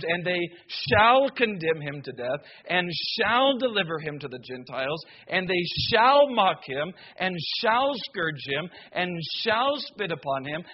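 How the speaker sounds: each shall lifted and leaned on; stress on shall. Shown as a demonstration. Preacher reading scripture to the congregation, pressing each shall. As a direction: punch every shall as you read. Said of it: "how many times the word should and shall".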